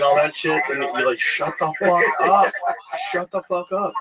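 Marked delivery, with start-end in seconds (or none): 1.2-3.9 higher, slow fed-up retort; mock exasperation. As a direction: tell off an embarrassing mom, pitch raised. Acting athlete snapping at screaming mom.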